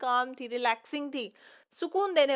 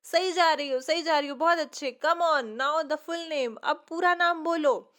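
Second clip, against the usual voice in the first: louder, bright cheering on; encouraging; 2 semitones higher, 5 dB louder than usual. Acted. Teacher encouraging a stammering pupil, loud and cheerful. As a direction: cheer her on, she's nearly there. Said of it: "teacher उसको encourage करती है".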